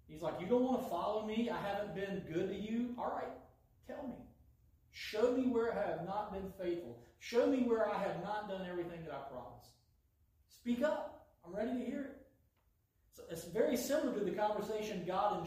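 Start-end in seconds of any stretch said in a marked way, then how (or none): 0.4-1.5 higher, pointed mock disbelief; sarcastic challenge. God challenging his disobedient people, sarcastic. 1.5-12.3 daring them to speak up; sarcastic God. Acted. God daring his people to testify, sarcastic.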